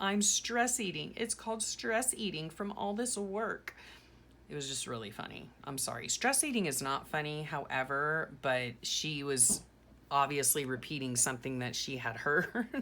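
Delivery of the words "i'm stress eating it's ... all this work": high, mock super-dramatic, fed-up, exasperated lament. Speaker quotes a young child in class, mock super dramatic exasperation. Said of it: "she says in a super dramatic, exasperated tone".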